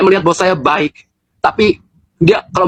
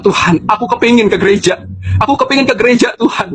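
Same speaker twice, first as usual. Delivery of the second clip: higher-pitched, mildly tearful re-enacted plea; retold tearful plea; 5 semitones higher than usual. Child pleading with God after being kept from church, mildly tearful. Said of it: "tapi saya sambil menangis".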